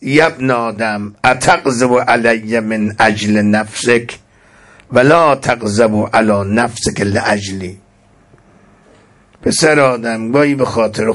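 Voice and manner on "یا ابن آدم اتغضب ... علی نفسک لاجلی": recited scripture. Acted. Recites Arabic hadith text.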